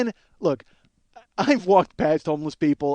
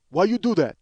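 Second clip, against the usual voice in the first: louder, accusing clerk voice; clerk's accusing question; 3 semitones higher, 4 dB louder than usual. Retold or imitated. Clerk confronting comedian over buying food, accusing. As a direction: mimic the blunt clerk. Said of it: "looks at me and goes".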